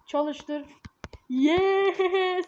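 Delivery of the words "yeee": gleeful cheer. Real, not acted. Glad to be rid of baby.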